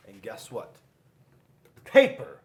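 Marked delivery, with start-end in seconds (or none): 1.8-2.4 much higher, loud, slow; triumphant announcement. A narrator's reading. Narrator declares Paper's victory, triumphant excited announcement.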